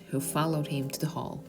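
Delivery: ordinary delivery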